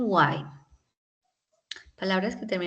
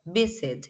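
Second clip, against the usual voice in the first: VI-sit, descending; stress on first syllable. Shown as a demonstration. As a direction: stress VI, drop on sit in visit. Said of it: "y descendieras".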